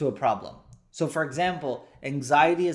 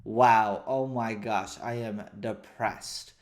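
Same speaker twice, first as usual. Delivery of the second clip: low, soft, mildly hopeless; subdued, lightly acted despair; acted depression; 4 semitones lower, 3 dB quieter than usual. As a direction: sink into stuck resignation, dropping in pitch. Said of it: "Being depressed 'cause you feel stuck".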